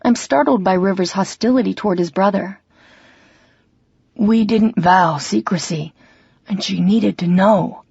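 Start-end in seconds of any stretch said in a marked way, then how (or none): 4.2-7.8 slow, humble admission. Acted. Xander answering his angry brother, slow and humble. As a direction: give it slowly and meekly. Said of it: "in a more humble tone".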